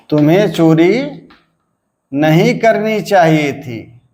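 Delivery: "तुम्हें चोरी" rises and hangs, "नहीं करनी चाहिए थी" falls; 2-3-1 tune. Shown as a demonstration. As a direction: pause after a rising "चोरी", then step down to "थी". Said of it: "यहाँ पे दो होगा".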